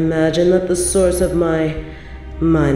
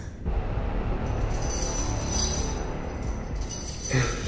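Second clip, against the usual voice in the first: soft, breathy sinister laugh; cruel chuckle; 2 semitones lower, 11 dB quieter than usual. Acted. Queen plugging captive's nose, hushed cruel chuckle. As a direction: let a quiet laugh slip out.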